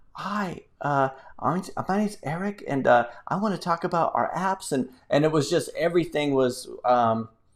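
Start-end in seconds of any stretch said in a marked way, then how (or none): 0.2-4.7 quiet, soft, tentative delivery with stumbles. Recalling recording app videos alone, Eric imitates his own softer voice. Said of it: "I would speak in a softer voice".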